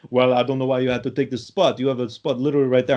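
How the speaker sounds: lightly imitated Eastern European accent, aggrieved; a mild Eastern European grumble. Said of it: "I'm, like, doing an accent".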